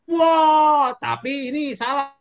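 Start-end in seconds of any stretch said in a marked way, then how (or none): 0.1-0.9 long, loud, high yell; re-enacted jumping scream. Man leaping into a ravine, long loud high scream. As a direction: scream it out as if plunging down. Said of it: "Saya teriak".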